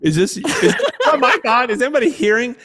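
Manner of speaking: high, anxious, half-laughing self-doubt; panicky inner voice. Retold or imitated. Speaker on stage doubting the silent audience, high panicky voice. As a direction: squeak it out like nobody's listening. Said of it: "And you feel like".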